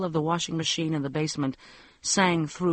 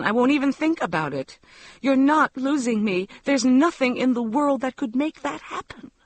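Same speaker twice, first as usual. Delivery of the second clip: tearful pleading; 6 semitones higher, 3 dB louder than usual. A narrator's reading. Wife begging her husband's forgiveness, tearful and pleading. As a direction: close to tears, voice pitched higher, begging. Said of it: "began to cry with shame and love".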